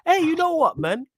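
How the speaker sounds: high, loud gushing praise; mock villain admirer. Host mocking co-host's praise of villains, high exaggerated admiration. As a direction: mimic your co-host fawning over a bad guy. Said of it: "You will see the villain, the bad guy, and go".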